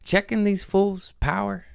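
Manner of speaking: high mock-exasperated voice; incredulous quote. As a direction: play it as a squeaky outraged aside. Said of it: "And I'm just like".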